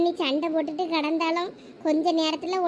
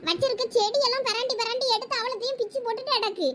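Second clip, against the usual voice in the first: lightly voiced irritated mother; 4 semitones higher than usual. Plays the fed-up mother.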